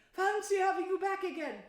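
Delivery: high, loud, overjoyed welcome; delighted. A narrator's reading. Mole dancing around Toad, delighted. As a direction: bubble over with glee. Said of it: "began to dance around him".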